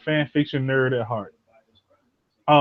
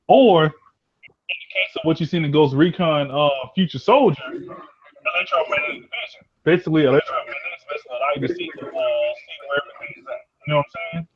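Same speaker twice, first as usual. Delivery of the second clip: through a tube. Real, not acted. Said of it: "It sounds like you're talking through a tube".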